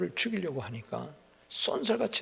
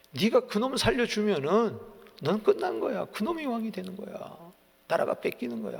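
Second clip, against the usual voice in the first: higher, louder scolding rant; angry outburst; 5 semitones higher, 3 dB louder than usual. Retold or imitated. Saul rages at his son Jonathan, angry shout. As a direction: berate the son, voice rising. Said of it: "막 화를 내는 거야".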